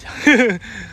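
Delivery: short sobbing burst; tearful sob. Real, not acted. Overcome recalling the first month's success, sobbing. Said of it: "Nangis pula".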